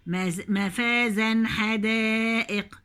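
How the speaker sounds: مفازا with a clearly sounded final -an before حدائق; مفازا ending in a distinct -an; clear nunation. Shown as a demonstration. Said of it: "هجيب التنوين واضح".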